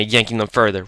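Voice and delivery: plain reading voice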